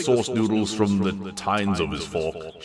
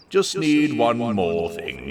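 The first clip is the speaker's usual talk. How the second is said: slow announcement; 4 semitones higher, 3 dB louder, slower than usual. Acted. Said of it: "he announced".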